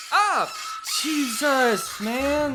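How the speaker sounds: real scream, high pitched then gasping; startled yelp. Real, not acted. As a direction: caught off guard by the scare. Granny jump scare.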